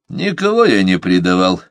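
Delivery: ordinary delivery, nothing marked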